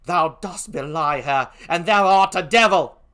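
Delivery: put-on slow British-accented rebuke, rising to loud; poor British accent. Emilia defends her mistress to Othello, indignant British accent. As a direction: denounce him in an amateur British accent. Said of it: "forgive my poor British accent".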